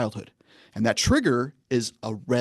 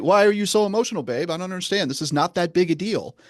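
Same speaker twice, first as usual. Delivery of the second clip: higher, mildly baffled complaint; exasperated husband; 6 semitones higher than usual. Acted. Husband dismissing his wife's feelings, mildly exasperated. Man acted arguing with wife.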